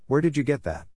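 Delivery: sharp, clipped question from the witch; curt demand. Acted. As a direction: bite the words out tersely. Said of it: "the witch bit out".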